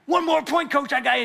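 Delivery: high, loud eager boast; cocky kid. Retold or imitated. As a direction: taunt the coach, sure of the win. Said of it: "So he's like".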